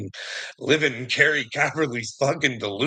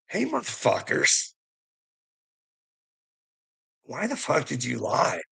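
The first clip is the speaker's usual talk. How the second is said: retold angry callout; 2 semitones higher than usual. Calling out the liars.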